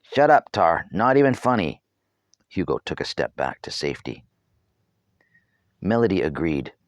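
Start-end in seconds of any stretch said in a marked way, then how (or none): 0.0-1.8 put-on annoyed boy. A narrator's reading. Boy scolding friend at cliff.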